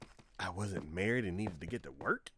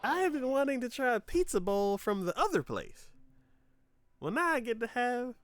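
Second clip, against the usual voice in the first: much higher, louder, thrilled; delighted; 8 dB louder than usual. Retold or imitated. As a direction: gush over the free treat. Delighted at a free pizza bowl.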